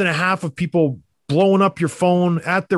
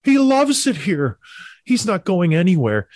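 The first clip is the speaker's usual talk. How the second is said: mock Toronto fan; 5 semitones higher, slower than usual. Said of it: "people in Toronto say".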